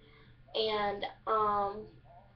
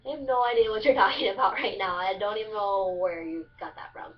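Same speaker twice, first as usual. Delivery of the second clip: puzzled, stretch the question then tumble on; baffled reaction. Retold or imitated. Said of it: "I'm like".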